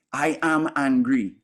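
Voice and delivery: slow, weighty declaration; identified with anger. Shown as a demonstration. Teacher showing a class what owning anger sounds like, emphatic declaration. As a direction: declare the anger as who you are, slowly. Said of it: "Listen to that statement".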